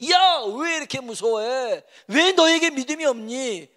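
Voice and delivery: high, loud colloquial scolding, acted; rebuking. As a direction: act out an exasperated teacher rebuking followers. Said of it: "라고 꾸짖습니다".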